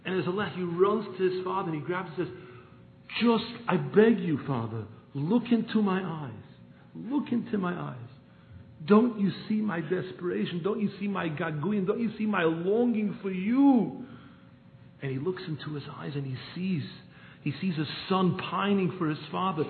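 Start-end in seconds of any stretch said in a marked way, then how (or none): 3.2-14.1 louder, slow pleading; desperate begging. Retold or imitated. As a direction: beg your father with longing. Son begs father to look.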